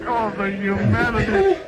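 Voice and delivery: mock dramatic lament. Meme soundboard clip reaction.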